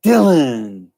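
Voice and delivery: Austrian action-hero greeting; Arnold Schwarzenegger. Acted. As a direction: hail a buddy like an Austrian action star. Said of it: "In The Predator".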